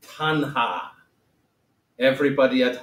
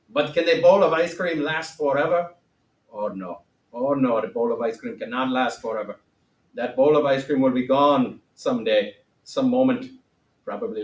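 put-on Gautama accent. Teacher playing the great Gautama for class, lightly accented. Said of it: "what happened to the accent again".

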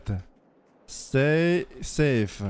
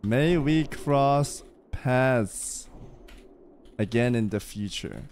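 slow, solemn blessing; wise sage; slower than usual. Acted. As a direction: bless her like an ancient sage. Slow mystic farewell to NPC.

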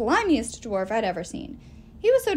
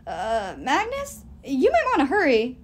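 calls down, louder on the end; yelling from above; 3 semitones higher, 5 dB louder than usual. Acted. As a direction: shout down a warning into the hole. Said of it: "Jack yelled".

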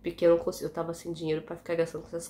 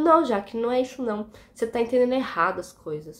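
coworker protesting; 3 semitones higher, 3 dB louder than usual. Retold or imitated. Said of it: "E ela falou".

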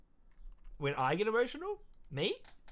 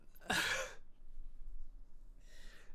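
teary breathy laugh; 11 dB quieter than usual. Real, not acted. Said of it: "I'm crying right now".

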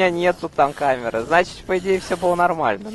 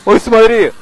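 high, loud excited cry; 8 semitones higher, 9 dB louder, slower than usual. Real, not acted. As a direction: call out in delight. Spots Doctor Who booth.

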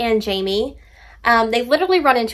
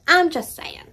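"I'm" lifted high, then a falling "just saying"; cheeky singsong defence; sassy high repeat; 7 semitones higher than usual. Shown as a demonstration.

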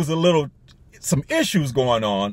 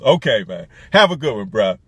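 lower-pitched, bassy reply; put-on deeper guy voice; extra bass; 5 semitones lower than usual. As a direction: drop the voice for some extra bass. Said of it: "I put a little extra bass".

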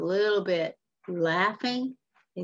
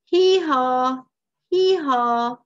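loud, raised mock braying; donkey bray; 6 semitones higher, 8 dB louder, much slower than usual. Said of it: "Glum says".

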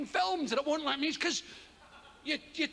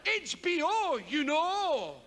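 confident aplomb; 3 semitones higher, slower than usual. Shown as a demonstration. Comic faking knowledge of the channel, confidently. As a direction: say it like you know all about it. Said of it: "great confidence".

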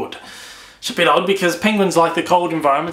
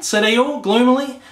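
gentle storybook reading to listeners; story read aloud. A narrator's reading. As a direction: settle them in with a storytime read. Reads the new book aloud.

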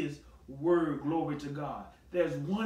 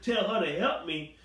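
incredulous echo. Acted. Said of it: "Who she think she talking to?".

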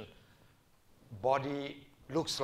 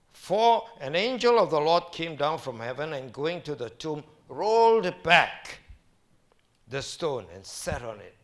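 louder reading, slowing on rolled back; dramatic scripture reading; 3 semitones higher, 9 dB louder than usual. Acted. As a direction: read it like a proclamation, slowing at the end.

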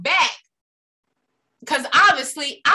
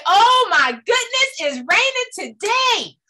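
mock dismay; 6 semitones higher, slower than usual. Complainer moaning to listeners about rain, hammed-up dismay. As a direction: act put out by the weather. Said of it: "You can say".

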